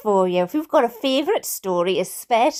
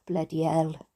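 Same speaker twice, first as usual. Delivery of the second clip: breathy shocked whisper; 8 semitones lower, 8 dB quieter than usual. Real, not acted. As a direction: hush it under your breath. Reacts to teacher stealing headphones.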